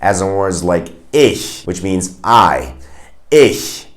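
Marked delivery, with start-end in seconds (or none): 1.1-1.6 ICH with a soft, hissed sh-like ch; soft German ch. Shown as a demonstration. Teacher shows learners the soft sound, soft German ch. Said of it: "the hard one would be ch". 3.3-3.9 ICH ending in a soft, hushed hiss; soft German ch. Shown as a demonstration. Teacher repeats the word for learners, soft German ch. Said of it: "The soft one would be sh".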